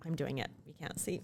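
hushed secret whisper fading to breath. Retold or imitated. Co-host mimicking someone silently mouthing along, whispered. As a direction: pretend to mouth along unseen. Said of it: "they're like".

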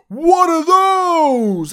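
hammed-up shrieking Miz impression, high, slow and loud; mock The Miz's over-the-top acting, drawn out. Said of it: "This is horrible acting".

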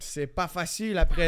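lightly imitated French accent; accent français de France. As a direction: keep up the mock French accent. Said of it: "j'ai chié l'autre avec l'accent français". (léger accent de France imité)

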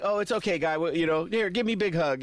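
breezy, friendly reassurance with a hug offer; easygoing mock pal; cheerful mock reassurance. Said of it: "kinda like".

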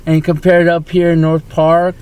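tipsy slurring after several beers; slurring words. Real, not acted. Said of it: "the way you're slurring your words now".

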